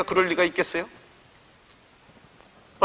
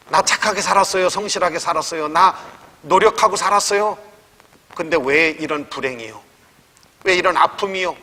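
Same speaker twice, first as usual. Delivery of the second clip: rising, louder cry of complaint to God; each why climbs higher and louder; building lament; 3 semitones higher, 4 dB louder than usual. Retold or imitated. Preacher voicing the widow crying out to God, building lament. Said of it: "이렇게 탄식할 만합니다".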